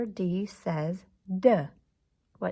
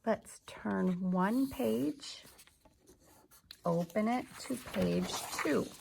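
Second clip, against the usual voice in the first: whisper; 4 dB quieter than usual. Real, not acted. Whispered instruction.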